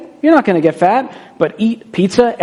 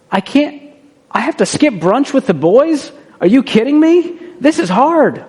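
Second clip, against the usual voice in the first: whiny complaint; 5 semitones higher than usual. Retold or imitated. Complaining about sacrifices.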